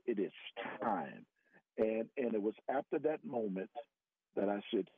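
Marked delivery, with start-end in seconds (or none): 0.0-1.2 much lower, soft solemn voice; deep hushed divine voice; the audible voice. Retold or imitated. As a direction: drop low and quiet, like a voice from beyond. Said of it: "all that voice said".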